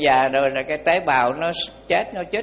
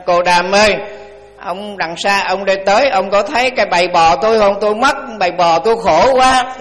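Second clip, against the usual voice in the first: crying farmer; 2 semitones higher, 5 dB louder than usual. Retold or imitated. Farmer crying to the Buddha about his lost cows, loud sobbing plea. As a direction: wail it like a frantic farmer who lost everything. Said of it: "ổng khóc".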